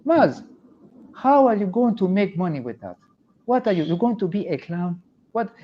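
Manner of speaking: high, disbelieving immigrant parent voice; incredulous immigrant parent. Retold or imitated. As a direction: scoff like a baffled parent. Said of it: "parents were like".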